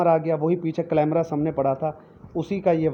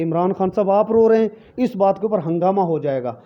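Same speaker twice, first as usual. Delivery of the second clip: louder, higher dismayed plea to the leader; upset supporter; 4 semitones higher, 4 dB louder than usual. Pretend. A supporter cries out to the leader on TV, dismayed and loud. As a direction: protest in shock like a loyal follower. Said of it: "सारे कहेंगे".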